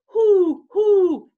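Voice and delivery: high, loud falling hoots; owl hoot. A narrator's reading. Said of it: "asked the owl".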